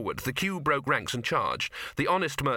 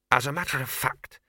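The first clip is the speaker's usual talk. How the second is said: hissed. A narrator's reading. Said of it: "he hissed".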